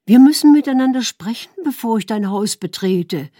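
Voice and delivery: wife stopping her husband before his mother's hut; calling out. Acted. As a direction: call it after him across the distance. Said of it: "rief sie ihm nach".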